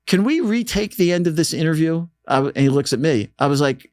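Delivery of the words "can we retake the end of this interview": high-pitched, light British accent imitation of a singer. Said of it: "Elvis has a British accent".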